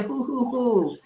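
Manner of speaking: sing-song hooting; playful hooting. Pretend. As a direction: hoot the question like an owl. Playfully asking who is from Nigeria.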